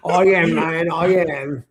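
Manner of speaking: insistent, badly faked Texas accent; put-on Texan, protesting the accent is real; mock-earnest unconvincing Texas accent; dubious Texas accent. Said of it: "you sure that's an accent from Texas".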